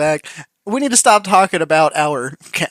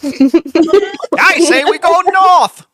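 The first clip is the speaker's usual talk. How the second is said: silly alternate voice; 11 semitones higher, 4 dB louder, much slower than usual. Pretend. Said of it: "I'm schizophrenic".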